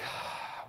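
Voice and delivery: a soft tired exhale before answering; weary sigh. Retold or imitated. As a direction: let out a quiet unvoiced sigh, like the cashier. Cashier sighing before answering.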